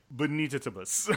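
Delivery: Bonita Tabas run together as bo-NEE-ta-ta-bus; third pronunciation attempt. Shown as a demonstration. Co-host guessing a client's surname, run-together try at Bonita Tabas. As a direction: say Bonita Tabas as one word, last part unstressed. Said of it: "I think, different tries".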